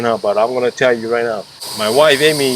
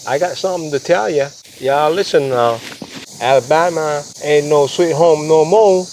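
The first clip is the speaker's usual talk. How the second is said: hammed-up Southern US accent, pitched higher; 5 semitones higher than usual. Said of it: "How's my southern accent?".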